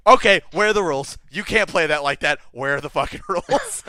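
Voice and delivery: a touch of an irritated player demanding rules; half-hammed indignant complaint; mock annoyed player. Imitating annoyed card player.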